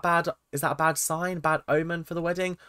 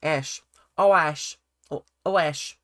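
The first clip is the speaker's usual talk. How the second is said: lightly imitated Australian accent; mock Australian twang on Ash. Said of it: "let me get into the Australian accent".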